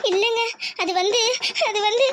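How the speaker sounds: hesitant, sobbing between phrases; tearful. Acted. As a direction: break into sobs while trying to explain. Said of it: "எதுக்குடி இப்ப அழுவுற". (அழுதுகொண்டே தயங்கி)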